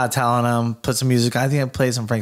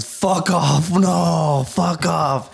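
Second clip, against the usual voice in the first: higher-pitched, disbelieving retort; shocked refusal; 6 semitones higher, much slower than usual. Retold or imitated. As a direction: recoil in retold shock and disbelief. Retold shocked reaction to alien eye.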